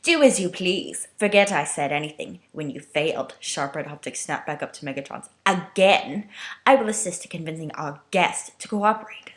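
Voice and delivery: mock submissive Starscream.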